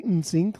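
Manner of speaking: "N sync" with a nasal N; too nasally. Shown as a demonstration. Explaining why they avoid saying N sync that way, nasally. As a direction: say "N sync" through the nose. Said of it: "like too nasally".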